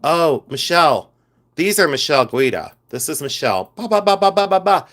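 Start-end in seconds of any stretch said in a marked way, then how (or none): 3.8-4.9 high yapping little poodle; snooty poodle voice. Pretend. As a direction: yap it out like a prissy poodle. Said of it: "why did I make it sound like a poodle?".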